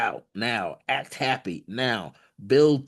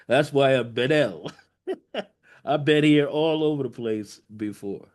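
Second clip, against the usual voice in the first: laughing; 2 semitones higher than usual. Retold or imitated. Ben L's joke on his name.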